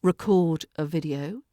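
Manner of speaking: "record" as re-CORD in the phrase; verb stress. Shown as a demonstration. Teacher gives a verb example, "record" stressed on CORD. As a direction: stress the second syllable of "record". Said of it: "when it's a verb".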